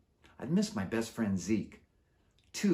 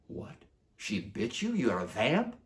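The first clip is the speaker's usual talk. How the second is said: shocked; 3 semitones higher, slower than usual. Acted. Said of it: "His jaw dropped".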